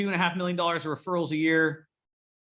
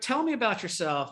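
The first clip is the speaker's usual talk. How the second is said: tell me about yourself; 6 semitones higher than usual. Retold or imitated. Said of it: "And they're like".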